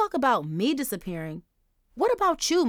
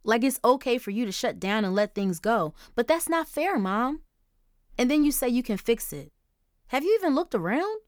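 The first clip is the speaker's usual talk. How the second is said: higher, louder angry tirade; fuming; 5 semitones higher, 4 dB louder than usual. Acted. Daughter fuming at her grieving mother, angry. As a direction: let the resentment pour out. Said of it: "Angel fumed".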